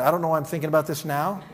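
amused retelling with a laugh; laughing repeat. Retold or imitated. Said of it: "that's always a good sign".

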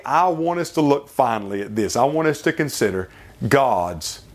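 fervent pulpit preaching. Acted. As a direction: preach it, rising and falling with conviction. Preacher builds through the sermon.

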